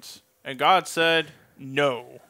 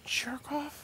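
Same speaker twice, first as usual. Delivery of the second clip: snippy reply; 11 semitones higher, 14 dB quieter than usual. Pretend. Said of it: "Eileen retort voiced".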